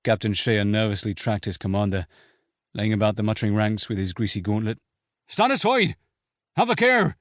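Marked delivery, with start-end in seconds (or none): 5.3-7.2 high barked orders; furious shouts. A narrator's reading. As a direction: shout them out of the way. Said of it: "Shea's furious shouts".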